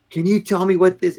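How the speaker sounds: sharp high yell at a subordinate; mock-yell the general's demand; retold yelling. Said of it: "and he's yelling".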